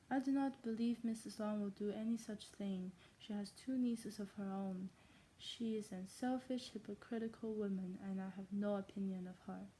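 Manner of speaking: amateur German accent for a novel reading; fake German accent. Shown as a demonstration. Reader voicing the Bennets' conversation, fake German accent. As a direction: read the dialogue in a put-on German accent. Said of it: "in my fake German accent".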